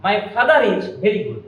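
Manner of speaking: slow model, father linked to is with an r; linking R pronounced. Shown as a demonstration. Teacher correcting the dropped R, r sounded in "father is". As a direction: keep the r between father and is. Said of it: "এখানে আরটা বাদ দেওয়া যাবে না".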